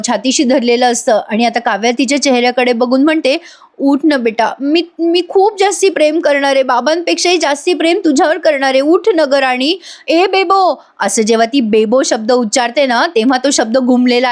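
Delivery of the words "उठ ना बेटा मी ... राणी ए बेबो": higher-pitched, beseeching coaxing; retold loving plea. Mother promises her newborn more love, pleading.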